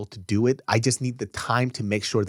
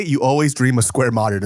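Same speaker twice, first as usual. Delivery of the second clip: louder mock Chinese accent; playful Chinese-accented callback; Jackie Chan; 5 dB louder than usual. Reprises the Jackie Chan accent joke.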